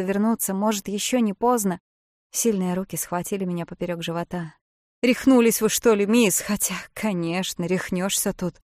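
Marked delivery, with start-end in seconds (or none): 5.0-8.6 haul her back with a shout; alarmed boatman. Acted. Jim grabs her from water. (Джим, громко и встревоженно)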